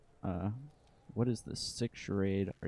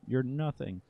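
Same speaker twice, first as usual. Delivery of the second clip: raised voice; 5 semitones higher, 3 dB louder than usual. Acted. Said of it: "he raises his voice again".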